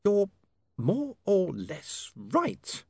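slow, a little hoarse and subdued. A narrator's reading. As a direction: squeeze the words out hoarsely. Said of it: "a little hoarsely".

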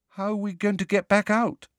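high-pitched, mildly uneasy question; a touch of nervousness, high voice; uncomfortable. A narrator's reading. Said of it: "said Neville uncomfortably".

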